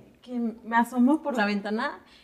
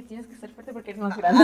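nervous pep talk. Retold or imitated. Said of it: "yo estaba temblando".

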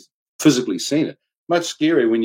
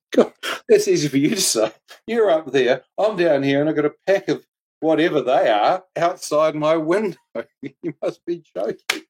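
laughing mock protest; 5 semitones higher than usual.

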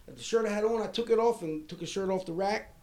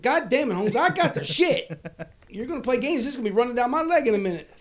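mock desperate plea; 7 semitones higher, 5 dB louder than usual. Desperate prisoner begging for the bathroom.

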